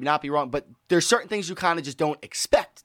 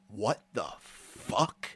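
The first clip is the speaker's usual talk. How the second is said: stunned hush; 6 semitones lower, 9 dB quieter, much slower than usual. Retold or imitated. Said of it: "she just goes".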